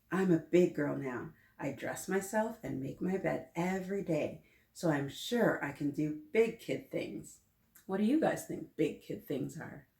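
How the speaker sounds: lively storybook read-aloud; animated picture-book narration; reading to children. A narrator's reading. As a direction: read it to a class of kids.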